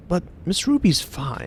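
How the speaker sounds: confused. Acted. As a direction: say it slowly, as if puzzled. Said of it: "he looks confused and he goes".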